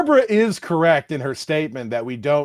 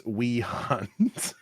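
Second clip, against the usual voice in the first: normal talking voice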